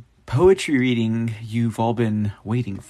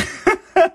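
real high-pitched giggle; laughing; 5 dB louder than usual. Real, not acted. Podcaster amused by the chill beats pick, laughing. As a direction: burst into a high, loud giggle.

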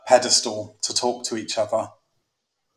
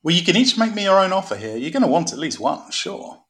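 salesman voice; 5 semitones higher than usual. Acted. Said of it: "you can put on your salesman voice".

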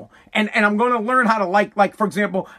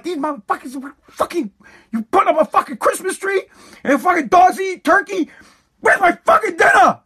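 high, building furious shout; pissed-off rant; 9 semitones higher than usual. Acted. Hungry dad raging at his household over dinner, pissed off. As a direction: rant that climbs to a yelled question. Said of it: "you get pissed".

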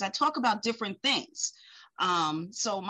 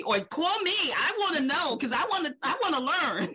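eager; 7 semitones higher than usual. Retold or imitated. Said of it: "gets people like".

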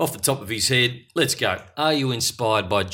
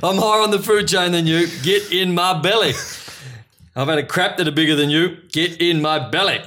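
loud, higher greedy ogre voice; much higher, louder mock Fat Bastard roar; hammed-up Fat Bastard; 8 semitones higher, 4 dB louder than usual. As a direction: bellow it like a hungry brute. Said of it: "there's a narrator goes".

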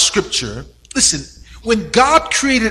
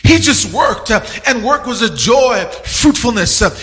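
building sermon. Acted. Preacher telling his church about Adam's curse, building fervor. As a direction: preach it, leaning into the story of Adam.

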